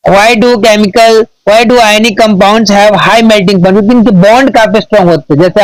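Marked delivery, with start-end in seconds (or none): 0.1-3.7 slow, word-by-word reading of an English answer; slow dictation. Acted. Teacher dictating an answer to students, slow careful reading. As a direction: dictate it slowly so students can write.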